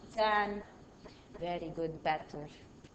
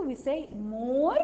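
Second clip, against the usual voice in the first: more drawn out with a rising tune; stress on more; 3 semitones higher than usual. Shown as a demonstration. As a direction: say "more" slowly, lifting it. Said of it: "when we're describing two".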